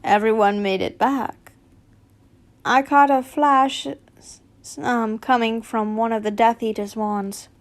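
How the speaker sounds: a hint of gruff old Moody reporting. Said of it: "Moody's gruff voice".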